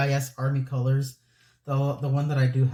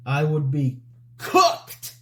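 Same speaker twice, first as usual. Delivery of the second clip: drawn-out slang; 4 dB louder, much slower than usual. Acted. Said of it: "the way I said that, it made me feel like one of those old people".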